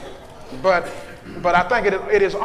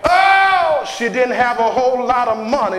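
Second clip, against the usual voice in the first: preaching whoop. Acted. Preacher whooping to the congregation about giving. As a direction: moan it out like a preacher.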